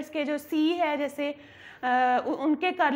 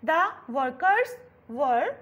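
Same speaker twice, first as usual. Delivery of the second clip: slow model reading; 2 semitones lower, much slower than usual. Shown as a demonstration. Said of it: "होंठों को गोल करना".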